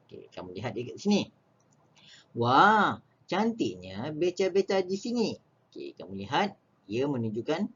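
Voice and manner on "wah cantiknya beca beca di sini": admiring exclamation, raised pitch; exclaiming. Shown as a demonstration. Teacher reads a trishaw admirer's line to pupils, exclaiming. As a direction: read it out as an exclamation of wonder. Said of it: "kita penggunaan kata seru".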